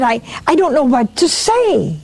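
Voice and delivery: retold stammer, tripping on the first word; mildly flustered, halting start. Startled priest answers the boy in his dream, mildly stammering. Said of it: "I stammered".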